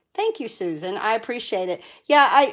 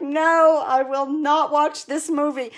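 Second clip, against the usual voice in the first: mock refusal; 3 semitones higher, slower than usual. Retold refusal to watch sad film.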